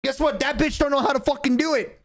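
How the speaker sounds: high, excited gloating; mock triumphant bragging. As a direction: crow over the win like a kid. Gloating over driving left.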